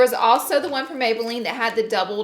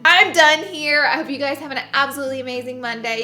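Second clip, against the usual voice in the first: lightly voiced bubbly guru sign-off; a hint of YouTuber cheer; beauty guru outro; 4 dB louder than usual. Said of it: "old school beauty guru intro".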